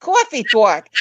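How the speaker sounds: put-on friend's New York accent, rounded vowels; New York accent imitation. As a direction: lightly imitate a New Yorker's drawn vowels. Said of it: "That's what my friend Linda says in New York".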